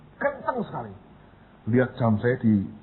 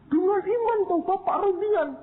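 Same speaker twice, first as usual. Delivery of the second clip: mock pious voice. Mocking the faithful advice.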